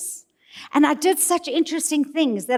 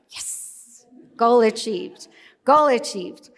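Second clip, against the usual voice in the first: tags 1; slower than usual. Retold or imitated. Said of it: "I was like".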